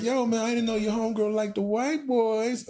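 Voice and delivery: white buddy gossip. Retold or imitated. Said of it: "He's like".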